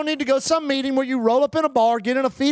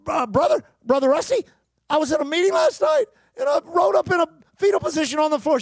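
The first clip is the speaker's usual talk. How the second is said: high, agitated retold crying plea; mock weeping; 6 semitones higher, 4 dB louder, faster than usual. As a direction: imitate a weeping woman pleading urgently. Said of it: "and she's crying".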